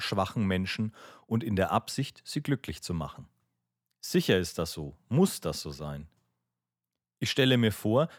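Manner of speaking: measured, emphatic audiobook monologue; literary story reading. Acted. Brother arguing his idea to Aljoscha, emphatic literary reading. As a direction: read it as an argued monologue with lifted key words. Reads a character's long monologue aloud.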